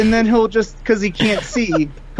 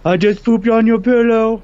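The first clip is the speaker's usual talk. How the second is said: dog voice; 4 semitones higher, 3 dB louder than usual. Retold or imitated. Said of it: "what is your dog's voice".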